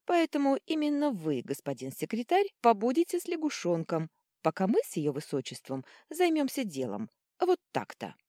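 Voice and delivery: triumphant proclamation, starting high and loud; grandly announced, emphatic. A narrator's reading. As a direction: proclaim it like a verdict you relish. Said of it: "торжествующе провозгласила".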